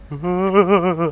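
drawn-out imitated "uh"; imitated noise. Shown as a demonstration. Showing a friend the requested noise, drawn out. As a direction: copy the noise back as a long "uh". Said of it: "oh, you mean the".

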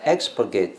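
"expurgate" with stress on opening EX; stress demo. Shown as a demonstration. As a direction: model EX-pur-gate for "expurgate". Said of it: "念这个重音很重要". (示范 expurgate，重音在 ex)

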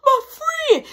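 retold panicked plea. Retold plea while being beaten.

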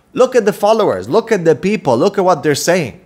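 usual speaking voice

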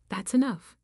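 wife snapping back at her husband, loud; angry cutoff. Acted. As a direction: slam the door on the argument. Wife cuts off husband's insult.

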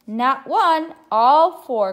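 high, loud storybook exclamation; eager cry. A narrator's reading. Hungry little bear answering mama about apples, crying out eagerly. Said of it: "cried Little Brown Bear".

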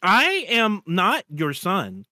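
slow robotic stepchild reply; type-to-speech, slow and even; text-to-speech voice. Acted. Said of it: "Two text-to-speech voices read out".

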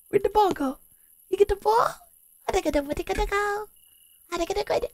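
put-on high, squeaky talk to a toddler; cutesy high coo to a child; baby voice. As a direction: play along in a high baby voice. Cooing to game baby.

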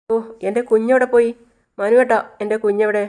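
put-on frantic young mother; panicked mother. A narrator's reading. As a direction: call out in sudden fear. Mother finds baby missing.

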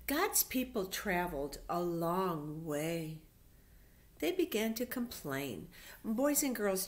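put-on storybook voice for young kids; reading to children. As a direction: read it out like Sunday school story time. Reads Bible story to children.

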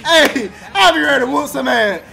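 laughing through a mock threat; joking bluster between laughs. Real, not acted.

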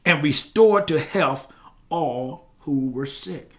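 slow, deliberate Bible reading; measured pulpit reading; scripture reading. Real, not acted. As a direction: read the verse out slowly with weight. Reads scripture aloud.

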